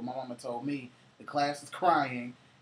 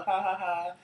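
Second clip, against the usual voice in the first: spoken mock laugh, slightly raised pitch; imitated laughter; 6 semitones higher, 5 dB louder than usual. Storyteller mimics relatives laughing at the dinner table, mock laugh. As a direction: imitate a crowd laughing with a loud "ha ha". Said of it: "everybody was laughing".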